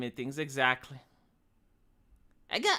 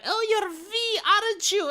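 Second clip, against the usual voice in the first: mock excited fan; 3 dB louder, slower than usual. Imitating fan who recognizes him.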